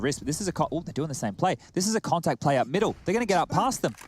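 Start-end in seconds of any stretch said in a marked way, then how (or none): 1.7-3.9 esports caster. Real, not acted. Rising play-by-play tension.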